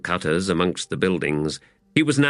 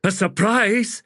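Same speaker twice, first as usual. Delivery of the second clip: giant warrior woman; 12 semitones higher, slower than usual. A narrator's reading. Teblor woman's voice.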